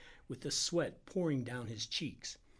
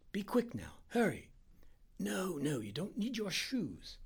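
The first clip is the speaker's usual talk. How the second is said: high-pitched, insistent doctor giving orders; urgent Indian doctor; 6 semitones higher than usual. Acted. Doctor sending helper for chloroform, high and urgent. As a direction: send the helper off with pressing instructions.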